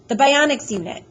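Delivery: high, loud insistence; upset insistence. A narrator's reading. Boy confronting the doctor about the operation, upset.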